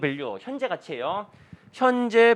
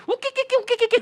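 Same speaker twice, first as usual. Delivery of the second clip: high-pitched mock monkey chatter; comic imitation of monkey calls; monkey screeching. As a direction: screech like a bunch of protesting monkeys. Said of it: "그랬더니 원숭이들이".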